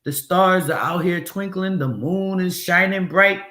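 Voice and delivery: lightly voiced cheerful pilot on the intercom; a hint of a breezy captain; pretend pilot announcement. Pilot cheerfully announcing clear night to passengers, lightly voiced. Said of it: "You never hear the pilots go".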